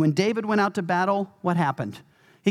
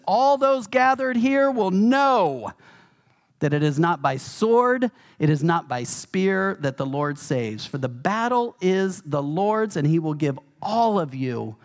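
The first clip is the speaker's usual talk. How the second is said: proclaiming David. Acted. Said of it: "He says".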